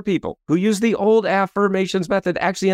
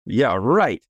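sarcastic brain; 5 semitones lower than usual. Retold or imitated. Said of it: "And the brain says".

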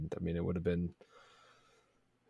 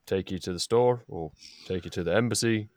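lightly voiced friendly halfling guide; a hint of a small homely halfling; 3 dB louder than usual. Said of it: "It's a halfling voice".

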